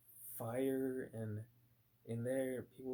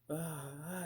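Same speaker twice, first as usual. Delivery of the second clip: higher, drawn-out 'ah' without volume; half-hearted imitated scream of burning; mild mock scream; 4 semitones higher than usual. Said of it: "I start screaming".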